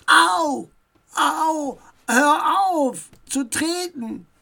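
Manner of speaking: high, loud cries of ouch, then protesting; hurt, high-pitched complaint; acted pained yelp. A narrator's reading. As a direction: yelp as if being kicked. Kicked stranger cries out in pain.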